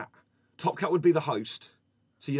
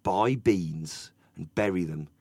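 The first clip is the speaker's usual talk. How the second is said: fervent doomsayer; 7 semitones lower than usual. Retold or imitated. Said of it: "with a fervour that I've not seen".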